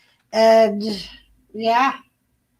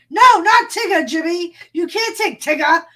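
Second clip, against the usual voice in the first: mock protest; 6 semitones higher, 4 dB louder than usual. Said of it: "everybody's in chat going".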